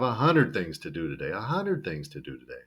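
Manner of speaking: "hundred" as "hunnerd" in running speech; reduced D. Shown as a demonstration. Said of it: "the drud becomes a nerd".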